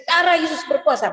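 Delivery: mild imitated shout, pitch lifted; retold prayer shout. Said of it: "setiap saya teriak".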